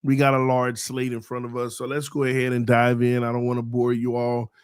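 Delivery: strained, fading voice; losing voice. Real, not acted. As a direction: talk with a worn-out voice. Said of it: "I'm kinda losing my voice".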